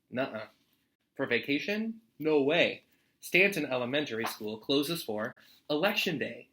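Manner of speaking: lively read-aloud storytime voice; story narration. A narrator's reading. Teacher reading a picture book to students, lively storytime voice. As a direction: read it warmly to a class of kids.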